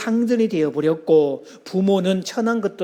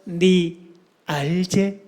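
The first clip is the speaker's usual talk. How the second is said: put-on Gyeongsang accent; much slower than usual. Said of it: "자기 마누라를 딱 쳐다보면서".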